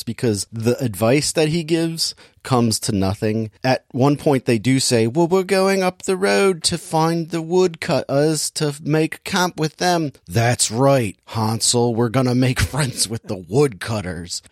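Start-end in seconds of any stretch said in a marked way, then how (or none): 5.1-14.4 lightly voiced girl, starting high and slipping down toward an old man; mock girl voice sliding into old-man tones; girl turning old man. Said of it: "making her voice turn into, like, an old man".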